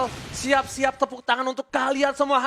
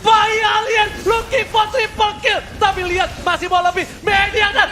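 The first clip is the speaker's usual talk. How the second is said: fighting game announcer; 8 semitones higher, 5 dB louder than usual. Acted. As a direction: boom it out like an arena announcer. Kill-streak announcer call.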